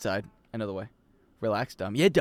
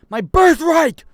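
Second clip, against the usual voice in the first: melodramatic lament; 13 semitones higher, 11 dB louder, much slower than usual. Acted. Mock dramatic loss.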